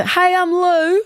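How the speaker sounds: retold eager self-introduction. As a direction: sell the friendliness.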